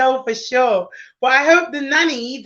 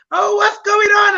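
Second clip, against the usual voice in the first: higher, louder mock mom; 9 semitones higher, 4 dB louder than usual. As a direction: call out like a startled mom. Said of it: "mom's like".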